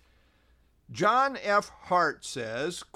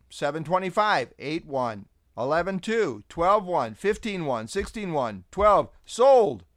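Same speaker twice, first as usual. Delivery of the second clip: rattling off verses like an auctioneer; lightly playful auctioneer patter; 3 dB louder than usual. Pretend. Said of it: "Sound like an auctioneer, don't I?".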